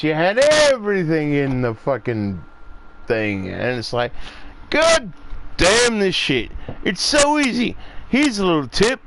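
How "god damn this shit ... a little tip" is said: high, heated venting; frustrated rant. Real, not acted. Fan ranting at the movie makers, high and heated. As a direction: vent at the filmmakers, pitched up hard.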